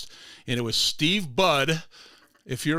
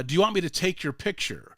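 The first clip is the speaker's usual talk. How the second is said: imitated thick Hispanic accent, pitched a bit higher; 5 semitones higher, faster than usual. Groundskeeper offers to take visitor's picture, in thick Hispanic accent. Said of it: "Hispanic accent".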